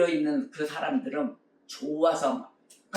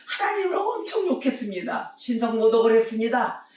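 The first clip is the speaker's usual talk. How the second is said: anguished confession; 5 semitones higher than usual. Retold or imitated. Young man confessing blasphemy to God, anguished high cry. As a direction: voice jumps much higher in confession.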